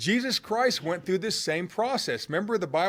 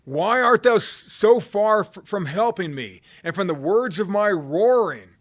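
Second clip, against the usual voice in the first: anguished reading; 4 semitones higher, 6 dB louder than usual. Acted. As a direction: cry the verse out like a man in pain. Preacher reading the psalm's anguished cry.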